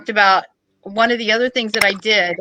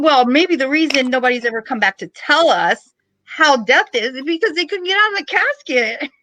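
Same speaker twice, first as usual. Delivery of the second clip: laughing punchline; 4 semitones higher than usual. Real, not acted. Joking punchline to funeral director.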